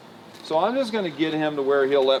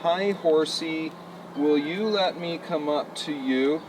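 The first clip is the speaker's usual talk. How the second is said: nicest way. Shown as a demonstration. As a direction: ask as sweetly as you can. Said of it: "the nicest way you possibly can".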